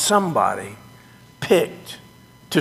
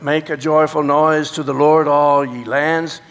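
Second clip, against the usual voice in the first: liturgical reading. Shown as a demonstration. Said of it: "is where I start with".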